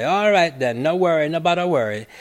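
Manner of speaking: brisk, easy Jamaican patois; Jamaican accent. Retold or imitated. Author quoting the imagined brother's comfort, in a light Jamaican accent. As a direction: reassure in a light Jamaican lilt. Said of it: "as a Jamaican would say".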